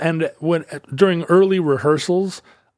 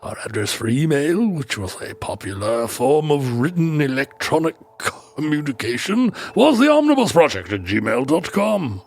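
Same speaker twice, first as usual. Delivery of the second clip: put-on drifting British accent. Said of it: "what that accent turned into".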